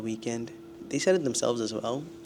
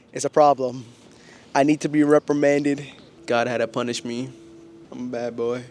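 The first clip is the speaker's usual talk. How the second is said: much louder, half-joking self-scolding; loud mock self-reproach; 8 dB louder than usual. Real, not acted. Vlogger joking he deserves the ticket, loud mock scolding. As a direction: ham up punishing yourself.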